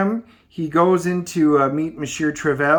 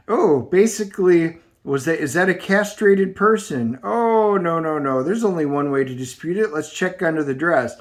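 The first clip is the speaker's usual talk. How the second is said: put-on a light touch of a grumpy old heckler; mock the performer from the balcony, lightly voiced; heckling old guy. Old balcony heckler mocking the singer, lightly voiced. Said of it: "the two old guys up in the Muppet Show balcony".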